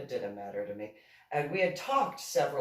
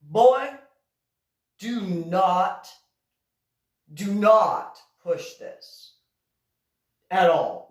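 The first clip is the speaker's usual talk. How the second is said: stern scolding; 5 dB louder, slower than usual. Retold or imitated. Scolding the boy in uniform.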